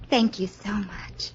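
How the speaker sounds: slow, hushed, unvoiced thank-you; whispered thanks. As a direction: breathe the thanks out, overwhelmed. Thanking Victor for the orchid.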